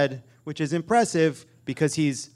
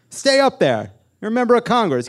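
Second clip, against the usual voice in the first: loud, high mock outrage; exasperated scolding; 7 semitones higher, 7 dB louder than usual. Comedian scolds the congressman who left the podium, exasperated yelling. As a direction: yell it at the deserter in comic disbelief.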